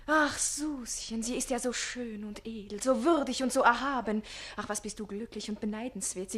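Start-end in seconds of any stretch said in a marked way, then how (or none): 0.1-4.2 swooning rapture. Acted. Page raving about the countess, swooning. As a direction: gush over her, enraptured.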